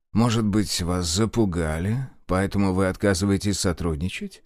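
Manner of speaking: sly, coaxing question; insinuating. Acted. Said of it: "вкратчиво поинтересовался".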